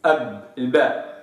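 أب with lips pressed, small plosive ba. Shown as a demonstration. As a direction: say أب showing the lips. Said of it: "تجد أن الخارج من الشفة".

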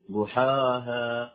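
slow ضحاها with a dark, thickened ها; faulty recited ضحاها, over-thickened ending; wrong heavy ha. Shown as a demonstration. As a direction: stretch ضحاها and make the final ها heavy. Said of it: "خطأ".

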